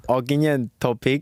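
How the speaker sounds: slow Ogden Topic in a Thai accent. Shown as a demonstration. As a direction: say the name slowly with a Thai accent. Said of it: "with a Thai accent".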